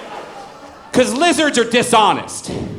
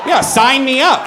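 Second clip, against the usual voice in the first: slow, louder mock-eager yell; eager shout; 5 semitones higher, 3 dB louder than usual. Real, not acted. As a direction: sell it like you're ready to join up. Excited about church high.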